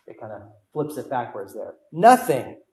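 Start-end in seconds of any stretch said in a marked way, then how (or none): 1.9-2.6 "Nothing" punched out loud; emphatic, louder "Nothing", falling at the end; very strong emphasis. Shown as a demonstration. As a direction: hit "Nothing" hard as a word alone. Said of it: "Very strong emphasis on this word".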